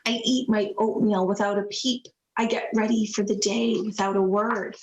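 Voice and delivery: gentle picture-book narration; story reading. A narrator's reading. Reads picture book aloud.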